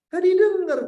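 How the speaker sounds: high and loud; emphatic outburst. Real, not acted. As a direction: punch it out to the congregation. Preacher stresses child ignores.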